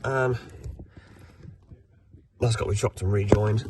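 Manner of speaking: ill, congested voice; sounding ill. Real, not acted. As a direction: talk through a heavy cold. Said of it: "Sorry if I sound like I'm dying".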